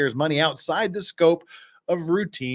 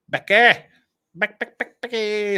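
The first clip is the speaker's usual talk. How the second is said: calling out; 6 semitones higher, 5 dB louder than usual. Pretend. Calling out Becky.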